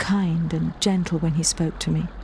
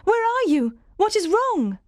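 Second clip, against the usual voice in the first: crying out; 13 semitones higher than usual. A narrator's reading. Jane answering Rochester's voice in the night, high urgent call. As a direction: call out into the dark. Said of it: "I cried".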